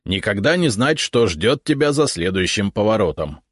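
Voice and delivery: carried away by the thrill of the unknown; enthusiastic. Acted. Left head telling the visitor about surprises, enthusiastic. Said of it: "с энтузиазмом продолжила левая голова".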